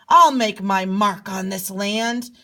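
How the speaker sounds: loud, mock-angry king. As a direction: declare it loudly like an angered king. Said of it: "He gets angry and says".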